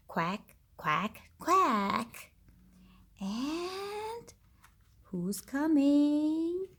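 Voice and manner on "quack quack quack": duck quack. Acted. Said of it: "What does the duck say?".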